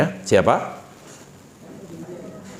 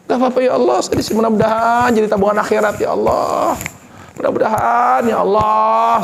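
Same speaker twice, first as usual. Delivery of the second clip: patient prayer; 5 semitones higher than usual. Acted. Preacher voices Asia's patient prayer.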